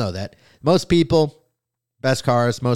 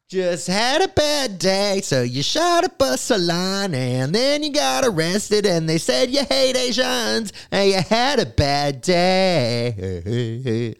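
higher sarcastic singsong, slow at the end; mocking; 7 semitones higher, slower than usual. Host ridicules the police's bad-day excuse, sarcastically. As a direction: sneer the excuse back at them. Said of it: "mocking the news excuse".

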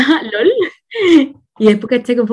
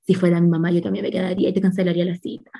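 mock empathetic doctor; 5 semitones lower, 6 dB quieter, faster than usual. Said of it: "cosplay de mujer empática".

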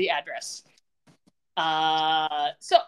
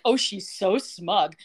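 sneering; much slower than usual. Retold or imitated. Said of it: "Brooke's like".

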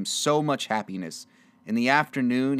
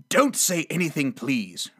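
mildly insistent, pitched up; raised protest that drops at the end; quick retort; 4 semitones higher than usual. Acted. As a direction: cut off thanks, softening on "please". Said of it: "retorted Scrooge".

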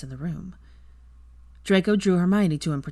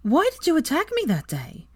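firm; 11 semitones higher, 3 dB louder than usual. Acted. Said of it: "in a firm voice".

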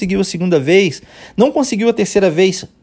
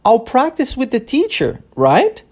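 a student checking, higher, with a rising "right?"; student asking; 5 semitones higher, slower than usual. Retold or imitated. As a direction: ask it like a doubtful student. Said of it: "essa é a pergunta que o aluno está fazendo". (aluno pedindo confirmação, voz mais aguda)

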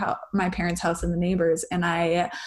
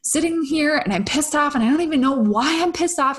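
higher, fast mock fury; retold angry rant; 6 semitones higher than usual. Retelling how she sat fuming, higher and fast mock anger. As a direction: replay the fuming outburst, pitched up and quick. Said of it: "I was furious and fuming".

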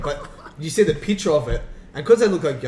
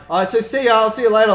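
higher and louder, breezy fake cheer; fake casual goodbye; 8 semitones higher, 8 dB louder, faster than usual. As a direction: brush her off with forced cheer. Shooing girl away as sister arrives.

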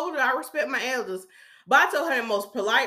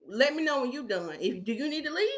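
softer, dead-serious reply; understated, unamused seriousness; straight-faced; 2 semitones higher, 5 dB quieter than usual. Retold or imitated. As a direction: say it without a hint of joking. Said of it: "I kept a straight face".

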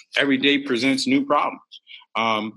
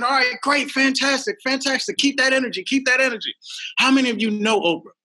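high, pumped-up mock cheer; hyped-up host; 12 semitones higher than usual. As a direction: egg the crowd on, voice up high. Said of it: "I said".

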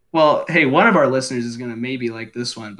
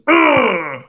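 Dengar grunt; 8 semitones higher, 3 dB louder than usual. Retold or imitated. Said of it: "boring bass ones".

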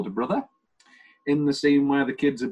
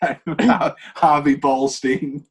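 drawn-out name; 5 dB louder, much slower than usual. Retold or imitated. Says character name performed.

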